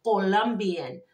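slow "Colombian" in a heavy Colombian accent. Shown as a demonstration. Reader passes on what she got, in a heavy Colombian accent. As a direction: say Colombian as a Colombian woman would. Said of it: "that's how I got it".

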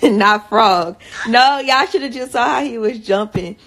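loud laughing talk. Real, not acted. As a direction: laugh through the story of his jump. Laughing at the child's dance.

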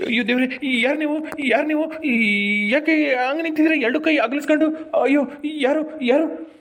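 startled, stretched-out questioning; a touch of dread, drawing out the words; acted fright. Frightened man asks a figure in the tree who it is, acted fright.

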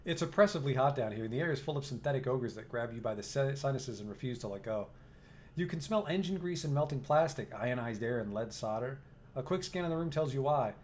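steady, even storyteller read; game narration. A narrator's reading. Narrator sets the scene for the player, even storytelling. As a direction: read the room description like a narrator.

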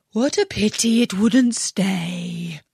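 slow, mildly wistful sigh; sighing regret. Acted. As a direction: let the regret out on a slow breath. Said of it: "sighed the lorry".

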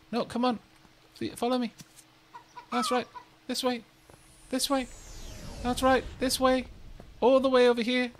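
lightly cooing animal talk; coaxing an animal. Pretend. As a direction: coax a pet to follow you.

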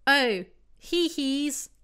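badly faked hee-hee, drawn out; mock giggle. Jack giggling at the others, mock giggle. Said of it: "Jack giggled".

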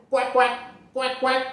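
high voiced duck quacking; duck quacks. Storyteller voicing the ducks, quacking high. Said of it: "Like that duck say".

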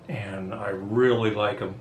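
talking around a cigar; cigar in mouth. Real, not acted. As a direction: lips clamped on cigar. Seen 0: Cigar held between lips while talking, until about 3.4s.

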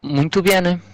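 sing-song fake Italian "Muito bem"; Italian accent. Shown as a demonstration. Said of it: "é português com espanhol". (sotaque italiano)

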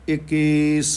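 ਇੱਕੀਸ as one joined word, drawn out; read joined. Shown as a demonstration. Teacher models scripture reading, ਇੱਕੀਸ joined up. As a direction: hold ਇੱਕੀਸ long without splitting it. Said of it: "ਪਰ ਇਹਨੂੰ ਪੜ੍ਹਨਾ ਇਕੱਠਾ ਹੈ".

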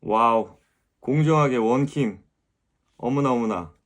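loud, delighted exclaiming; excited celebration. Real, not acted. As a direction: cheer the winner loudly. Celebrating the winner.

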